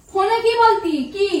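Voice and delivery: confronting the husband, demanding; sharper repeat. Acted. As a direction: press the question harder.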